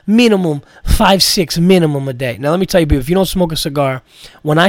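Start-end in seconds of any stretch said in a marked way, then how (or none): 0.1-2.4 Armenian accent impression. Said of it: "imitating this guy".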